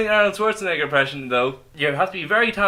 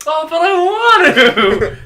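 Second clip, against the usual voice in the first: whiny Karen; 12 semitones higher, 10 dB louder, slower than usual. Pretend.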